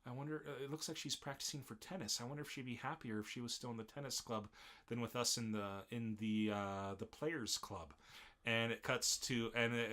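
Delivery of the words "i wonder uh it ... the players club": wistful musing. Retold or imitated. Character musing while secretly watching friend.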